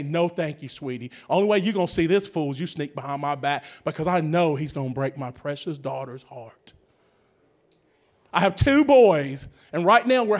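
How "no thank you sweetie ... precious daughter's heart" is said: stern dad. Retold or imitated. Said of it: "pops is gonna have to step up and say".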